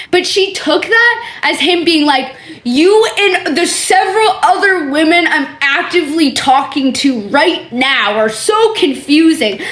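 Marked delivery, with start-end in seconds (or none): 2.6-9.6 mock quote, laughing. Mock version of his meaning.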